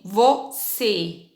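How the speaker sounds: "você" very slowly, split vo-CÊ, with a closed Ê; closed vowel. Shown as a demonstration. Teacher reading group two aloud, closed vowel. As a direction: separate the syllables of "você", holding the closed Ê. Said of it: "a mesma vogal foi acentuada".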